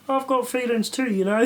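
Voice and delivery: high, laughing whiny quote; mock sulky voice laughing. Pupil quoting the feelings line in class, whiny and laughing. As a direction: laugh through a put-on whine. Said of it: "we'd just hear".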